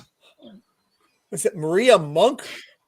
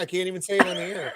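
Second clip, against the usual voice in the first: fast laughing protest; flustered by a rude slang term; laughing rush; 3 semitones lower, 5 dB quieter, much faster than usual. Real, not acted. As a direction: blurt it out through laughter. Laughing, rushed disbelief.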